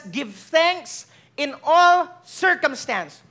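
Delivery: all drawn out and stressed, words spaced apart; slow emphatic verse reading. Shown as a demonstration. Preacher repeating the verse to the congregation, slow and weighty. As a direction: let each word land.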